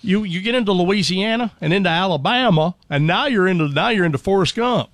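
touring Louisiana and Alabama dialects; Deep South accents. Shown as a demonstration. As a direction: slide into a Forrest Gump Southern accent.

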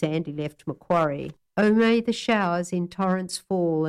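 measured, gently wistful reading; fond, nostalgic recital of a bush poem; poem recitation. Acted. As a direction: read it like missing someone far away.

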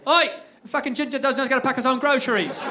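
high mock British call-out; imitated British man publicly jeering; British heckler. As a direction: announce it to the whole shop in a British accent. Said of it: "turn to the rest of the patrons and goes".

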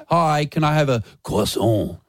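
mock French accent on croissant; plain order, then a hammed-up French croissant; put-on French accent. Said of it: "very different to someone that goes".

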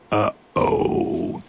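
high, sheepish uh-oh; guilty uh-oh. Acted. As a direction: squeak it out caught in the act. Monster realizes a mistake.

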